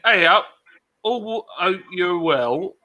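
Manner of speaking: Yorkshire accent slipping into West Country; attempted Yorkshire that drifts West Country. Shown as a demonstration. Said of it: "I tried to do that in a Yorkshire accent, but it ended up going to, like, a West Country".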